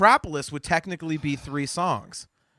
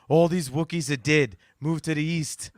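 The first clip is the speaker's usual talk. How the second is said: put-on New Zealand accent. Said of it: "he's got the accent. He goes".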